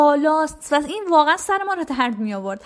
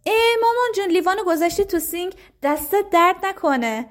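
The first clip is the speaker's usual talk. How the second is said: higher-pitched, appreciative parent voice; demonstrated praise; 5 semitones higher than usual. Shown as a demonstration. Mother thanking child for putting glass in sink, praising. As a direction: praise a small child with pleased surprise, pitch lifted.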